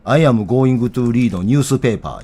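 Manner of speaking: very slow katakana English, Kansai melody; Kansai-accented English. Shown as a demonstration. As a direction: read each word slowly with Osaka intonation. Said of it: "俺の英語全部関西イントネーションですよ".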